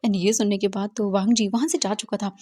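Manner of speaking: ordinary delivery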